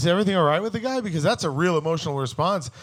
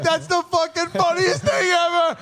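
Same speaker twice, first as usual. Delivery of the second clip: much higher and louder, roaring with glee; delighted outburst; 13 semitones higher, 4 dB louder than usual. Retold or imitated. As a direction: blurt it out cracking up. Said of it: "and I was like".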